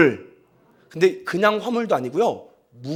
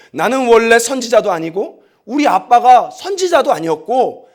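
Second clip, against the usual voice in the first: raised, defiant prophet talking back; Amos rebuking Amaziah; 2 semitones higher, 5 dB louder than usual. Acted. Amos answering priest Amaziah, defiant and raised. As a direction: throw his accusation back at him. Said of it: "아마샤에게 이렇게 말합니다".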